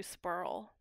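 "spurl", oi vowel turned into an er sound; regional oil-for-er vowel. Retold or imitated. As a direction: say spoil as "spurl", with an r-coloured vowel. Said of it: "told her not to spurl".

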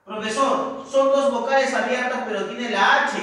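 student objecting. Acted. Teacher acting a student's doubt about the H, objecting. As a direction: raise the pitch a little for a pupil's objection.

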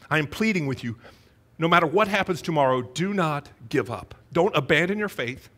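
a gentle, heavy plea, slowing on the key lines; pleading with sadness. Retold or imitated. Pastor voicing Jesus pleading with his disciples, a touch of sadness. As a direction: lean in and beg them not to give up. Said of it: "of sadness".

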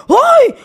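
high loud yelp; mock fright yelp. Mocking fear of the demonic preachers, high yelp.

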